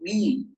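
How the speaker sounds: جي as a hard Egyptian g; voiced kaf. Shown as a demonstration. Teacher showing the voiced kaf error. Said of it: "الجيم المصرية".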